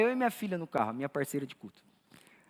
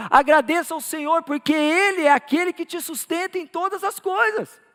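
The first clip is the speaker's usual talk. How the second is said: emphatic preaching building higher and stronger; 4 semitones higher, 4 dB louder than usual. Real, not acted. Pastor urging congregation to thank the Lord, building preaching. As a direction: build from permission to a ringing exhortation.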